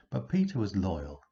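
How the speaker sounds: plain reading voice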